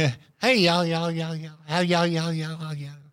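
words bouncing back, repeating like an echo. Imitating how he would talk working underground in a mine: imitating an echoing voice. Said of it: "it would have echoes".

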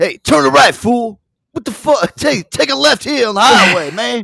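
loud shouting. Showing a downloadable voice package that yells at drivers in the morning, do Mr. T yelling directions. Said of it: "yell at you in the morning".

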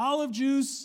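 shrill, very high, loud shout. Retelling Mom rolling down the car window at school, retelling a yell. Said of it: "rolls down the window and yells to Bronson and me".

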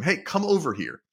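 mock high shout. Retelling calling back to a stung man walking away: imitating own past scream. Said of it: "I scream back over to him".

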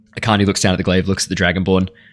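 ordinary talk

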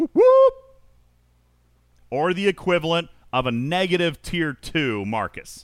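heavy sarcasm, swooping ironic cheer. Judging a game officer's weak stats, sarcastic. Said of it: "I'm being sarcastic".

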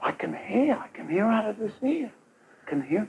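put-on very quiet speech. Retelling an old lady turning to her husband, imitating her really quiet voice. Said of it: "Really quiet".

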